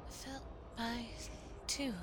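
soft hushed whispering of the lines; whispered recital. Acted. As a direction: breathe the words like a secret.

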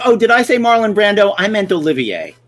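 mocking the director, starting high and loud. Actor mocking the director's mix-up for listeners, breezy and high. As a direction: brush off the mix-up like it's nothing. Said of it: "It's like".

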